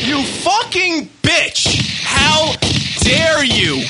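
channel a Glengarry Glen Ross tirade; Pacino-style angry outburst. Pretend. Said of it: "I feel like Al Pacino right now in Glengarry Glen Ross".

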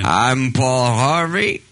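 put-on slow old-time radio sign-off; 1950s narrator. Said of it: "Do the line again".

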